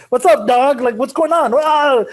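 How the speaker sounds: high, eager dog greeting; happy dog. Retold or imitated. Teacher voicing an excited dog meeting a stranger, high. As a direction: gush like a friendly dog. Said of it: "you're bros already".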